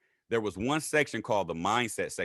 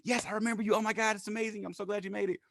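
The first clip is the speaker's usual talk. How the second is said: higher, gushing welcome; lightly voiced excited woman; a hint of Tam's gushing voice; imitating Tam; 11 semitones higher, faster than usual. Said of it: "She's like".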